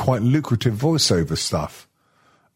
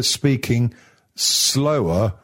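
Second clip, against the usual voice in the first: slow and loud; much slower than usual. Shown as a demonstration. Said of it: "speak slowly and loudly".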